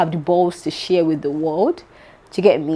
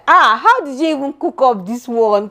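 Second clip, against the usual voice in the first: higher-pitched mock disbelief; incredulous reaction; 5 semitones higher than usual. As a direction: react as if amazed at a made-up tale. Reacting to bloggers' made-up stories.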